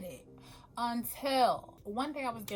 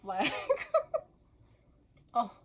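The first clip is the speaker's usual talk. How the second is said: overwhelmed delight; 5 semitones higher than usual. Real, not acted. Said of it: "about to cry".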